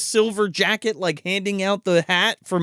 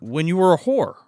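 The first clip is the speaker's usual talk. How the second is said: retold in an unemotional matter-of-fact way; deadpan. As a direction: drop the line deadpan, as the boyfriend. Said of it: "he just says it so deadpan".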